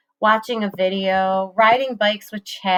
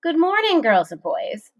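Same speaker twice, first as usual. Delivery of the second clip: booming principal; 9 semitones higher than usual. A narrator's reading. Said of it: "came booming over the intercom".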